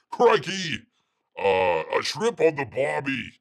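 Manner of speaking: loud, hammed-up Aussie Crikey; Australian accent. Host riffing on Shad's comment, in a loud mock Australian accent. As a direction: belt out a cliché Australian catchphrase. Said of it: "you gotta talk like this".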